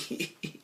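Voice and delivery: very soft, breath-only giggle; tiny goofy snicker, imitating Garth; imitated Garth giggle. Garth tickled by her name, soft imitated giggle. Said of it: "And he starts giggling".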